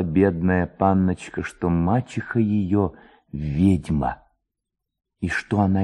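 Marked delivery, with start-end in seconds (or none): none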